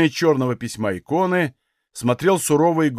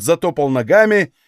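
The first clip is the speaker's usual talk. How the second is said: usual speaking voice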